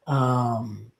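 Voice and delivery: low, near-whispered thinking aloud; muttering to oneself. Real, not acted. Recapper trying to remember the next plot point, muttering to herself. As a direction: mumble it softly under your breath while recalling.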